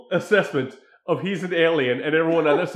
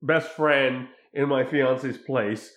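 shameless; 4 semitones lower, much slower than usual. Retold or imitated. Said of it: "just shameless".

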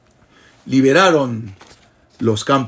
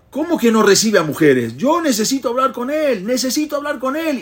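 pleading, near tears; 12 semitones higher than usual. Acted. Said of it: "Y se puso a llorar desconsoladamente".

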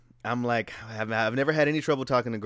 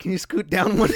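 put-on girl's voice; 8 semitones higher, 5 dB louder than usual.

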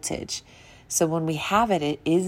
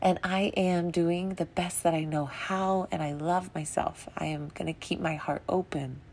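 soft affirmation; 3 dB quieter than usual. Retold or imitated. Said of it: "pull that back and say".

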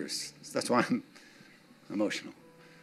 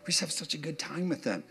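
tender gushing quote; 7 dB quieter than usual. Pretend. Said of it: "you go".

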